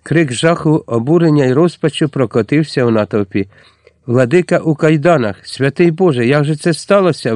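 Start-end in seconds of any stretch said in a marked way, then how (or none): 4.1-7.3 higher, dismayed outcry; shocked exclamation. Acted. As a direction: cry out in horror. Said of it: "вигукнули разом Найда й Дарина".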